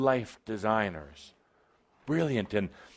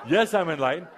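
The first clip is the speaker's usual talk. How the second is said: with attitude; 6 semitones higher, 4 dB louder, faster than usual. Shown as a demonstration. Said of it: "say it with a bit of an attitude".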